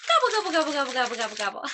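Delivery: put-on gobble like a turkey for the kids. Teacher imitating a turkey for the class. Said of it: "What do turkeys say?".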